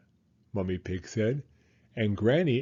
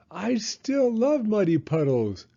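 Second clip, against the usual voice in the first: high, louder gleeful cry; excited cry; 9 semitones higher, 4 dB louder than usual. A narrator's reading. Peppa running outside to the puddles, excited. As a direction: cry out with glee. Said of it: "cried Peppa".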